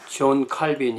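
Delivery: 칼빈 with an English-style -vin ending; 존 칼빈 as an anglicised name. Shown as a demonstration. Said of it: "영어식으로 부르다가".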